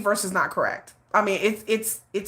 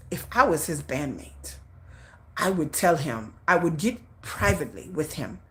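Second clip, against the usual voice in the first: lightly voiced, low and measured reproof; stern older friend; 4 semitones lower, 4 dB quieter than usual. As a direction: imitate an elder quietly admonishing a bandmate. Voices friend's stern private advice.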